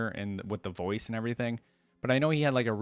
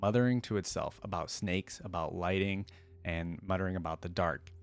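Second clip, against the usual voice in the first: hushed, haunted storytelling read; dramatic story narration. Acted. Streamer reading a horror story to viewers, dramatic narration. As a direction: tell it like a shaken survivor in the dark. Reads a dark story aloud.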